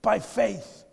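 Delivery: loud, shouted declaration of faith; bold faith declaration. Shown as a demonstration. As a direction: claim it like you mean it, full voice.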